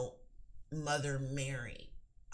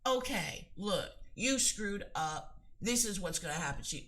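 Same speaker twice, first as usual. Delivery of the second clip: forceful command; 4 semitones higher than usual. Shown as a demonstration. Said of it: "You're gonna be like, ... more forceful".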